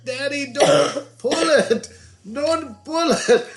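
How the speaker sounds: put-on high, slow, crying plea from a small child; wailing child. Daughter begging dad over the old Band-Aid, high crying plea. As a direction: beg through tears like a four-year-old. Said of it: "you were wailing like a dog".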